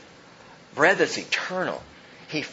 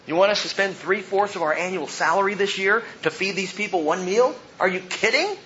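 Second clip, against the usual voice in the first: higher, incredulous mock protest rising at the end; sarcastic incredulity; 5 semitones higher than usual. Disciples objecting to Jesus about the cost, sarcastically incredulous. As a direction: protest with mild sarcastic disbelief. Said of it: "You gotta hear the sarcasm".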